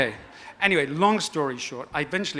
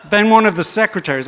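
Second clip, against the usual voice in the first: laughing through the words; breaking up mid-sentence; 8 semitones higher, 10 dB louder than usual. Real, not acted. Laughing while telling the story.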